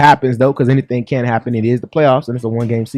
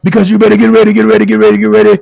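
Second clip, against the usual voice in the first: Bishop D H Jakes, preaching; 6 semitones higher than usual. Pretend. Bishop warning the producer off camera, rising preaching chant. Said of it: "Bishop D H Jakes".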